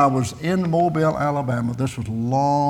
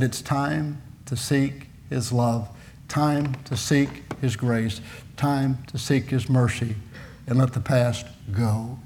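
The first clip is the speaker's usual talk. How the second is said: slow, hushed preaching; soft, measured appeal; 5 dB quieter, slower than usual. Retold or imitated. Preacher retelling his plea to seek God's love, quiet appeal. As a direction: space the phrases out gently and slowly.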